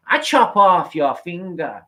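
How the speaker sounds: high, slow mock Japanese accent; imitated Japanese man. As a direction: threaten in a hammed-up Japanese accent, slowly. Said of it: "he turns into a Japanese man".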